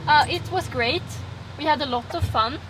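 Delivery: put-on Swedish accent. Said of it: "that is my Swedish accent".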